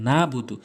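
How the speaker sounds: না বুদু with no throat sound after না; wrong, ayn dropped. Shown as a demonstration. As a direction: mistaken না বুদু, ayn left out. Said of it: "আইনটি বাদ দিয়ে উচ্চারণ করে".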